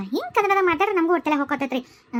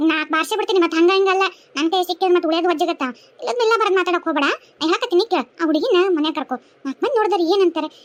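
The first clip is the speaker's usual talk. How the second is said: scolding tirade. Acted. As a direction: tear into the rude young man. Neighbour scolds the son angrily.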